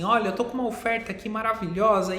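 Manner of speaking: fast, high salesman patter; telemarketer pitch. Retold or imitated. Teacher mimics a telemarketer's pitch, fast and high. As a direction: rattle it off like a pushy telemarketer. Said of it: "Sabe quando um operador de telemarketing liga e fala assim".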